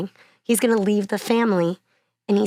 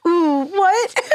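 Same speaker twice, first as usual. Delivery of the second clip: high, loud startled ooh; shocked audience member; 9 semitones higher, 4 dB louder than usual. Retold or imitated. Retelling a heckler's shocked ooh.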